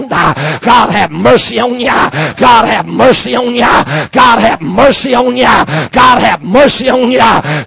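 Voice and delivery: loud rising preacher's cry; shouted warning. Real, not acted.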